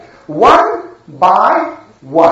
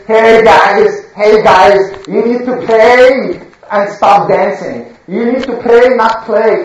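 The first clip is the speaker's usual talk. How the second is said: a hint of a loud, naggy preacher; mock preaching; 4 dB louder than usual. Gang mimicking the prophet, lightly loud mocking preacher. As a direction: call out like a mocked preacher. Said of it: "he's going to come and say".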